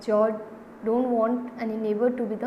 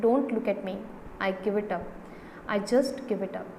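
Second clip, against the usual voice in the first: mild despair, sinking at each phrase. Acted. Husband refusing to take sides, in mild despair. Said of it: "George, in despair".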